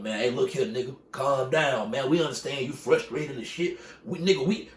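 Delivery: calming a teammate. Retold or imitated. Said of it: "He telling him".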